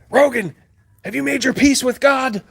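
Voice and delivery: high, loud mock-panic wail; over-the-top disaster-film panic; panicky guy. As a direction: ham up the doomed disaster-movie extra. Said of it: "panicky guy number three".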